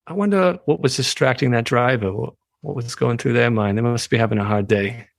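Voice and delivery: lightly voiced benevolent squirrel puppet; gentle non-judgmental wondering with a hint of New York-Boston accent; lightly put-on kindly meditation-teacher voice. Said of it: "I think Squirrel would be like".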